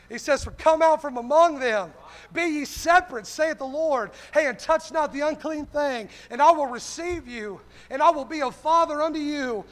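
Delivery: emphatic church sermon cadence; fervent preaching. Real, not acted. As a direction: proclaim it to the congregation. Preaches to congregation.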